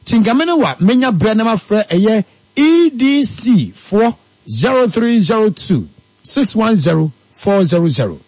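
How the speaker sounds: brisk upbeat advert voice; radio ad read. Acted. Host reading a sponsor advert on air, upbeat. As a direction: sell it to the listeners. Reads investment advert live.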